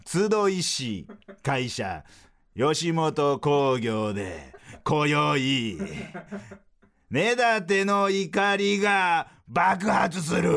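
slow, building to a shouted climax; rising sportscaster hype into a yell; breathless rising goal commentary. Pretend. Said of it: "スポーツの実況風にフリートークせよ".

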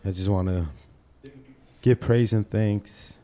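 mock church speech. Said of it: "all serious".

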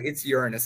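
"Uranus" said as YOOR-uh-nus; corrected pronunciation of Uranus. Retold or imitated. The corrector insisting back, "Uranus" stressed on the first syllable. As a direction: hit the first syllable of "Uranus", falling away after. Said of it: "wrong emphasis on the wrong syllable".

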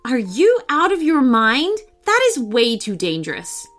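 put-on nanny scolding the boy's risky idea. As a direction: scold him for a mad plan. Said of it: "Emily scolded".

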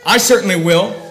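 "I" stressed in "I certainly will"; self-elevating "I certainly will"; emphatic I. Acted. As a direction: lean on "I", self-important. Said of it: "it is elevating himself".

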